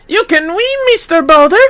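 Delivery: high, loud cheer; root for the fighter; cheering child. Acted. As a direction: kid cheering on the duel.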